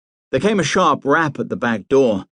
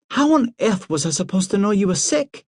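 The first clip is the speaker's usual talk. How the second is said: Priscilla's voice; 10 semitones higher than usual. A narrator's reading.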